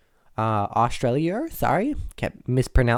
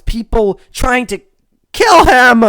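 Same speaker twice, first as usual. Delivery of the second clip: high, loud dramatic build; hammed-up anguished yell; melodramatic outcry; 9 semitones higher, 10 dB louder than usual. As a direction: burst out in overblown outrage on the last words. Melodramatic retelling of his struggle.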